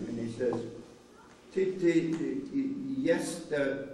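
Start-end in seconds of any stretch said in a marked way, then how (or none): 1.5-3.9 imitated halting stammer, groping for words; stuck on the first sounds, mock struggling speaker; stammering attempt. Supposed Polish speaker trying to talk to the boy, mock stammer. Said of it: "he can't speak a word of Polish".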